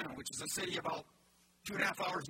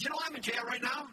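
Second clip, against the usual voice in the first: preaching Paul's words; 3 semitones higher than usual. Acted. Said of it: "He says".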